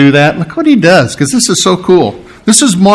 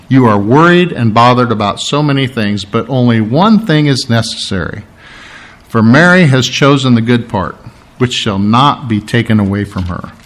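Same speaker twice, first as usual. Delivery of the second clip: lower, calm and tender reproof; soothing, understated reading; gentle, quiet; 3 semitones lower than usual. Acted. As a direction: correct her kindly, easing down at the end. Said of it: "gently, quietly".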